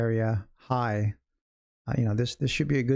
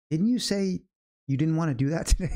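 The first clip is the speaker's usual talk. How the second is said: teasing chat member; 5 semitones higher than usual. Retold or imitated. Voicing chat member teasing him.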